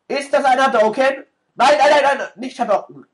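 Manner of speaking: frantic high-pitched panic; panicked shriek. Real, not acted. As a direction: yelp as the attack comes. Panicked at attack.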